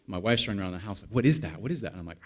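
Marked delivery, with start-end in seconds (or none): 1.1-1.9 mock urgent questioning, voice raised; lightly hammed-up panic; imitated alarm. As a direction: act out a wife's startled repeated question. Wife running round as alarm sounds.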